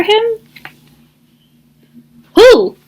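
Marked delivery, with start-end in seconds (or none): 2.3-2.8 sharp high squawk of a question. Acted. Thistle squawks at Duck about Goose, high and sharp. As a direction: squawk it out, surprised. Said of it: "squawked Thistle".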